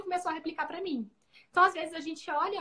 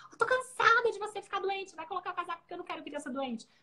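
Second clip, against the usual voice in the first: fed-up mother; 4 semitones higher than usual. Shown as a demonstration. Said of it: "eu não preciso falar isso pra ele".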